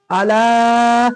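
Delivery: "अला" with "ला" held extra long; extra-long vowel. Shown as a demonstration. Teacher showing a two-and-a-half alif stretch, extra-long vowel. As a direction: stretch the end of "अला" well out. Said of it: "और थोड़ा ज्यादा खींचेंगे".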